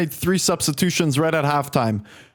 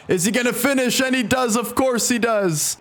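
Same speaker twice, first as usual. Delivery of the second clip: excited commentary; 4 semitones higher than usual. Real, not acted. Commentating a goal chance.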